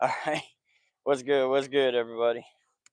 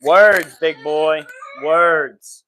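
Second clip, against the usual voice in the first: stern loud scolding; 10 dB louder, much slower than usual. Real, not acted. Dad loudly telling his son to use his words. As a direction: bark it out like a strict dad.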